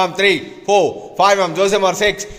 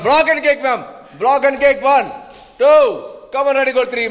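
energetic coaching shout; 6 semitones higher than usual. Real, not acted. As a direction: push the students through the count. Coach urging a kicking drill.

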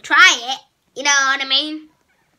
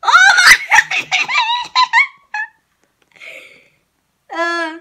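being chased; 6 dB louder than usual. Real, not acted. Seeker still chasing, laughing panic.

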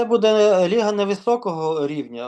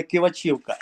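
Кивачівка stressed on ЧІ: киваЧІвка; corrected stress. Shown as a demonstration. Player repeating how he was corrected, Кивачівка stressed on ЧІ. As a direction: land the beat on ЧІ in Кивачівка. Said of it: "мене виправили, сказали".

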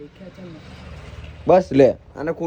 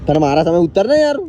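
louder, insistent plea to comply; impatient demand; 6 dB louder than usual. Real, not acted. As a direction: push the order out with exasperation. Repeatedly demanding someone get down.

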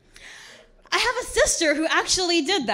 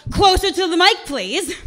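higher, louder call from the crowd; yelled out; 4 semitones higher, 4 dB louder than usual. Retold or imitated. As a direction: shout it from the back row. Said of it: "somebody would yell out".

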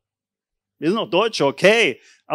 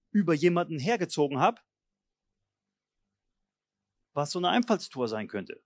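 sincere repentance; 5 semitones lower, 4 dB quieter than usual. Shown as a demonstration. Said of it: "dass man sagt".

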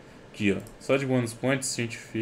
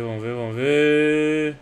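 slow, louder, drawn-out chant; drawn-out suspense; 4 semitones higher, 7 dB louder, slower than usual. Real, not acted. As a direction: stretch it out as the case spins. Opening a case, building suspense.

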